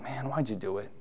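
very soft, low, heavy-hearted; sorrowful rebuke. Retold or imitated. The Lord asks about a sin, sorrowful and soft. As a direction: sigh it out like a let-down father. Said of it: "He brings up a sin saying".

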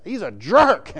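"jerk" hit loud and stretched; emphatic JERK. Shown as a demonstration. Preacher repeats his verdict on Nabal, emphatic stress on JERK. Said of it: "With emphasis".

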